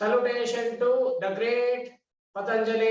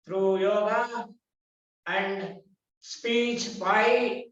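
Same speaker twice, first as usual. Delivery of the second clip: guided meditation. Acted. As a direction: lead them gently back to opening their eyes. Guides class with eyes closed.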